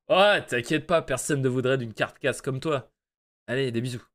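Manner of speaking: lightly voiced pompous boss; péteux voice, snooty. Boss dismissing employee's fear, lightly snooty voice. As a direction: brush the worry off with a touch of snootiness. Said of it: "On va lui faire une voix de péteux".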